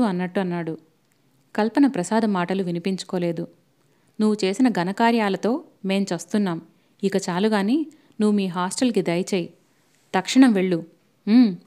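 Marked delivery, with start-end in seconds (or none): 4.2-11.6 rising angry rebuke, barking the last order; scolding rebuke. Acted. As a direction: order him out angrily. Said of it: "అంటూ గద్దించింది".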